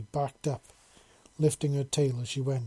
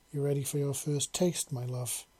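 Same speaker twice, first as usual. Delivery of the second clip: a light purr, dropping softer on the tail. Acted. Lover invites her partner, a soft purr. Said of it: "she purred softly".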